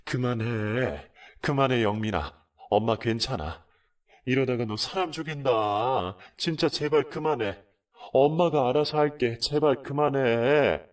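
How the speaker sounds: mother's loud frantic begging; desperate pleading. Retold or imitated. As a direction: plead with your son to stop. Mother begging son stop.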